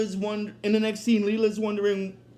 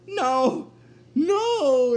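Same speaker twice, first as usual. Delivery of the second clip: mock cry of protest; Bender; 5 semitones higher, 4 dB louder than usual. Robot facing the robot devil, acted protesting cry. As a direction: cry out higher on the second word. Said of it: "then Bender's like".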